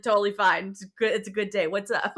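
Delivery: loud, overly breezy everything-is-fine; mock breezy denial. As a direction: insist it's all fine, loudly. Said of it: "He's like".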